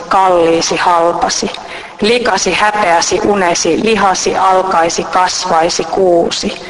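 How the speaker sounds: steady, rhythmic list-poem reading; poem recitation. Acted. Reading the rain poem aloud to listeners, rhythmic. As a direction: let each word fall like raindrops.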